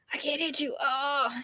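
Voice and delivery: very soft, feeble protest; small mock-helpless whimper. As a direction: act out being powerless, barely voiced. Mocks character unable to hit villain.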